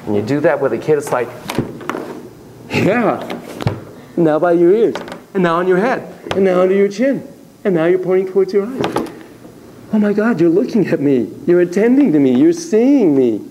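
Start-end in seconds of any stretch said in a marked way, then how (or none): 2.7-13.4 warm and embracing. Shown as a demonstration. Therapist reflecting a child's moves back to him, warmly delighted. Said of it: "saying it in that warm, embracing way".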